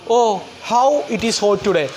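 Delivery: slow, drawn-out "ഓ" then the sentence; sudden exclamation. Shown as a demonstration. Teacher demonstrating an interjection to students, slow exclaiming voice. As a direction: show a sudden feeling of heat. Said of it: "extreme എമോഷൻസുകളൊക്കെ വെച്ചിട്ട് നമ്മളിങ്ങനെ പറയുമല്ലോ".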